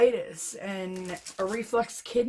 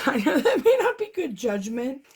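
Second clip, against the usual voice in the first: laughing; 4 semitones higher, 3 dB louder than usual. Real, not acted. Laughing at own recklessness.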